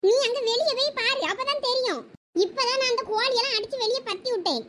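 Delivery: lightly voiced irritated mother. Plays the fed-up mother.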